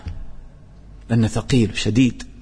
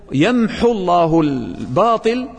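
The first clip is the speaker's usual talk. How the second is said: quick erasing; 3 semitones higher, slower than usual. Shown as a demonstration. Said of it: "لسرعة محو الله للباطل".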